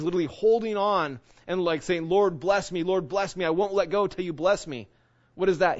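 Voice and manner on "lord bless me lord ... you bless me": pleading Jacob, a little higher and louder; a mild plea, clinging on and asking again; begging Jacob. Retold or imitated. Jacob wrestling, begs the Lord for blessing, pleading. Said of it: "He's begging".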